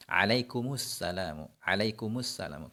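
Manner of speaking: alaikumus said with a u before salamu; damma linking. Shown as a demonstration. Teacher gives a familiar greeting as an example. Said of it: "Sama seperti alaikum".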